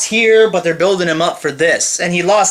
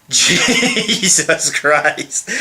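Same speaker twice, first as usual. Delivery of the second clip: a long, slow, fed-up groan; weary disgust; disgusted drawn-out groan; much slower than usual. Real, not acted. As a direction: stretch it out in disbelief. Groaning at the awful match.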